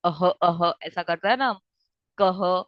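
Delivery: अह and कह with a breathy ह from the throat; visarga demo. Shown as a demonstration. Teacher showing students the visarga sound, breathy ह. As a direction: breathe out the ह after the vowel. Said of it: "विसर्ग मतलब ह".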